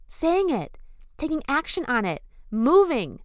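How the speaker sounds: rising rallying cry. Real, not acted. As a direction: fire them up to stand up for themselves. Rousing the viewers to act.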